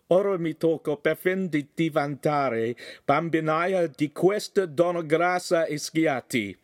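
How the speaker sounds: high, exasperated Italian grumble; grumbling big man. A narrator's reading. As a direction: complain with exasperation. Agostino grumbles about wife.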